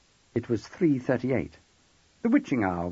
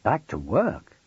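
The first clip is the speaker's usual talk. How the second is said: husband echoing it in a rising question; surprised repeat; slower than usual. Acted. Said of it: "he repeated".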